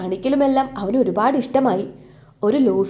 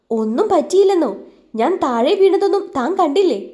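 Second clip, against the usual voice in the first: indignant retort; 6 semitones higher than usual. Acted. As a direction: argue back hotly. Injured girl argues back. (രോഷത്തോടെ തിരിച്ചടി)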